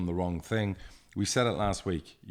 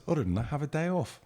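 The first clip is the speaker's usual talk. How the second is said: much higher, teasing have a day off; amused retold jab; 9 semitones higher than usual. Chairman teasing his worried manager, high and cheeky.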